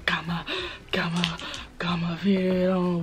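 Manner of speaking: whispered brag about the fitted. Acted. Showing viewers his fitted hat, whispered. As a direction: whisper it like a secret flex.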